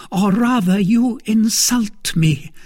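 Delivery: rising to her feet in outrage; indignant. Acted.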